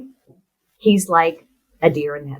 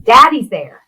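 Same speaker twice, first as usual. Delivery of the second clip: higher, loud burst of amazement, retold; amazed exclamation; 6 semitones higher, 9 dB louder than usual. Daughter voicing father seeing his daddy, loud amazed exclamation. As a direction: burst out with it, imitating his joy.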